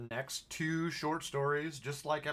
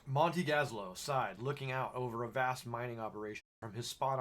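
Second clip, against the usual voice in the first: measured, lively audiobook-style reading; story narration. A narrator's reading. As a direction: narrate the tale to listeners. Reads the story aloud.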